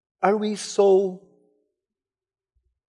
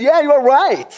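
joyful affirmation; 8 semitones higher, 6 dB louder than usual. Retold or imitated. Jesus affirms Peter.

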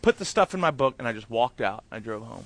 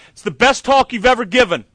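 excited praise; 5 semitones higher, 6 dB louder than usual. Retold or imitated. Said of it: "Chris Morentis on his way out goes".

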